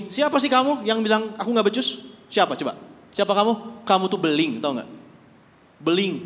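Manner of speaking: loud rebuking voice of God. Acted. God rebuking the complaining clay, loud and stern. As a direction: scold the pot that talks back. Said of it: "Jadi Tuhan ngomong gini".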